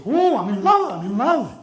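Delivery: high, loud swooning parrot; lovestruck parrot. Acted. Green parrot falling in love, high swoon. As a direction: swoon like a smitten bird. Female parrot voiced in joke.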